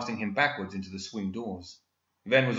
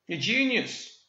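casual; 12 semitones higher, slower than usual. A narrator's reading. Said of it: "Ven said casually".

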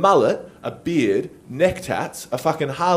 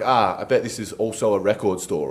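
knowing mutter; 8 semitones lower, 5 dB quieter than usual. Retold or imitated. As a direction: mumble it to yourself, deadpan. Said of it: "I'm like".

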